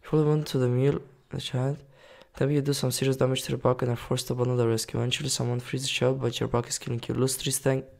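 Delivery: quick, even read-out; reading game text aloud. Acted. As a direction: read the event text straight through. Reads game event text aloud.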